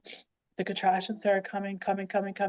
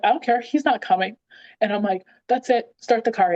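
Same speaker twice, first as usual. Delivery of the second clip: louder, mildly fed-up insistence; adamant retold refusal; 3 semitones higher, 3 dB louder than usual. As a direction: act out a woman who is done. Retold labour outburst, demanding to leave.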